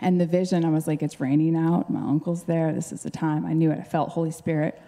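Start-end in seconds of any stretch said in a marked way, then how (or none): none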